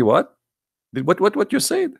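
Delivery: high, laughing "what, what"; baffled ambassador through laughter. Retold or imitated. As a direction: play the puzzled ambassador while cracking up.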